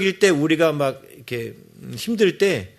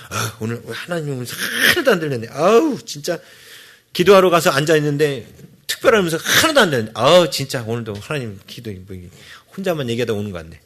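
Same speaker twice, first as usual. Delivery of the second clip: mock complaint; 2 semitones lower than usual. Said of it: "여러분들이 자칫 착각해가지고".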